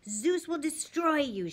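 hammed-up monster vow of doom; menacing threat. A narrator's reading. Fury threatening Percy from the floor, slow menace. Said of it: "she promised".

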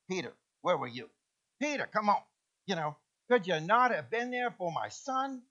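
lightly voiced Jewish mother accent, scolding Peter; a hint of a Jewish mother nagging; understated New York Jewish mom accent. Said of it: "Good Jewish accent there".

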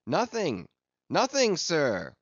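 high answering hail. A narrator's reading. Lookouts answering the captain from aloft, hailing down. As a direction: call back down from aloft. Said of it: "was the sound hailing down in reply".

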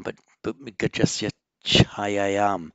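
gajasya chayayam, each syllable set out clearly; careful teacher reading of gajasya chayayam; Sanskrit model reading. Shown as a demonstration. Teacher modelling the sandhi form for students. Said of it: "double that cha".

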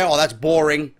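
a lightly mocked critic, dragging it out; mock critic lowering his voice to "bro"; mock whiny critic. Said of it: "some may say".

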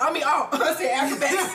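laughing at slip. Real, not acted.

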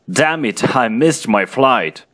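a light acted outburst at the departing plane; mild mock yell. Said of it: "You yell".

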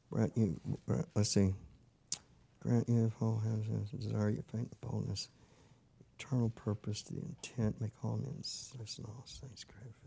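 muttered reading to himself. Real, not acted. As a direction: mumbles the text softly while searching for the right verse. Pastor mumbles scripture while searching.

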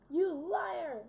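loud, sharp accusation; accusing shout. Acted. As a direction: yell it like you caught him lying. Accusing someone in game.

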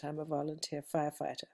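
ordinary talk, nothing marked

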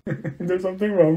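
amused, laughing confession; words riding on a laugh; laughing through words. Acted. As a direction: giggle while admitting it. Laughing at shared misery.

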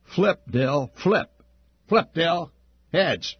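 a high, pushy chant; eager crony. A narrator's reading. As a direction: cheer the flip like a toady. Crony eggs on the flip.

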